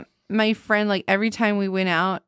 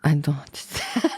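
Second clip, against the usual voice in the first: mock Asian accent; 5 semitones lower than usual. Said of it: "the Asian one".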